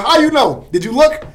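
high, loud disbelieving challenge; retelling John's startled how-you-know; incredulous question. Retold or imitated. Coworker recalled asking, incredulous and high. John quoted questioning him.

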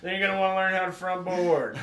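laughing high parody of a skate teacher; mock tutorial voice. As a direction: squeal the tutorial step in parody. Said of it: "Jake Ramsey's trick tips".

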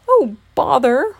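loud, drawn-out mild wail. A narrator's reading. Pooh dismayed as the bees aim for him, wailing. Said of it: "wailed Gopher Pooh".

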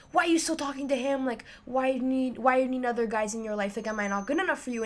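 fast, a touch of mock anger; angry ex. Retelling how the jealous ex snapped at her, fast and mock angry. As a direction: rattle off his jealous questions. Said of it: "He got so angry".

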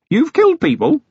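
the lad can't believe his ears; shocked young constable. A narrator's reading. Young constable shocked to hear his commander has killed, blurting it out.

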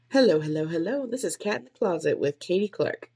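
bright sing-song host greeting; upbeat podcast intro. Shown as a demonstration. Podcaster testing her intro, upbeat host voice. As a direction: pitch it like an energetic show opener. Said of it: "pretty high up there".

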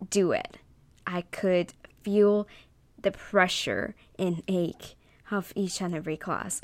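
heartfelt speech to fellow graduates; earnest graduation speech. Acted. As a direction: deliver it like a valedictorian address. Reads her graduation speech.

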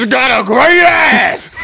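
Willem Dafoe voice. Pretend. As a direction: bellow it like a hammy villain. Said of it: "Do the great ass line as Willem Dafoe".

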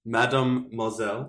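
Mademoiselle said in a broad Australian accent, flat English vowels; Aussie accent. Shown as a demonstration. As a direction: Mademoiselle like an Aussie tourist reading it off a card. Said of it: "That was the most Aussie way to say it".

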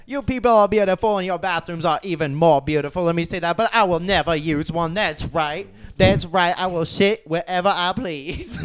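lightly voiced preachy stand-up comic; Scat Williams impression. Comic addressing the beautiful people, light impression. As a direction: address the crowd with mock-proud insistence. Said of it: "your impression sounds like a black robot".

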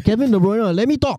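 high, insistent plea to a heckler; exasperated protest. Real, not acted. Again protests at being interrupted.

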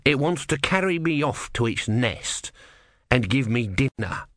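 tortoise god snarling. Acted. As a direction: snarl it with contempt. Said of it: "snarled the tortoise".

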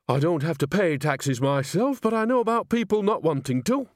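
put-on high-pitched confiding old woman; Nanny, understanding. A narrator's reading. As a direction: offer knowing sympathy, voice climbing.

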